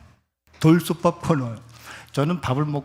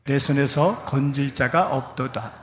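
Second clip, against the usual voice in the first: scripture reading. Acted. Preacher leading the congregation in reading, solemn.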